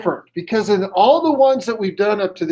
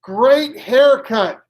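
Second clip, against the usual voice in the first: higher, drawn-out voice out of nowhere; mysterious voice; 5 semitones higher, 3 dB louder, much slower than usual. Acted. Joke's mystery voice compliments a man in the bar, slow and high. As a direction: stretch each word slowly, pitched up. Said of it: "comes his voice".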